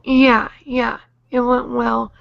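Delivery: swollen cheeks, hard to talk; talking through swollen cheeks; after wisdom teeth. Real, not acted. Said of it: "my cheeks are swollen".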